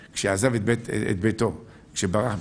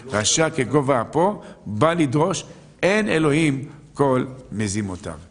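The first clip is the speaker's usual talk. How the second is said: intoning a verse; 4 semitones higher, 4 dB louder than usual. Acted. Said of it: "זה אומר הפסוק".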